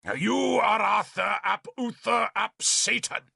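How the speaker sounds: name him as the devil's son, shouting; furious accusation. A narrator's reading. Bishop curses Arthur by name.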